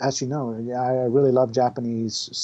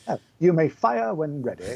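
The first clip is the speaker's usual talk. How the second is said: snobby British; 3 semitones higher than usual. Retold or imitated. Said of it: "all that snobbery".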